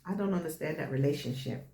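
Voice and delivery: light African accent on the line; a hint of an African lilt. Real, not acted. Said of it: "Why you said it with an African accent?".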